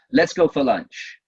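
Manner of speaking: firm statement, no question in it; telling way. Shown as a demonstration. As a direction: tell them, don't ask. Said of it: "That's a telling way".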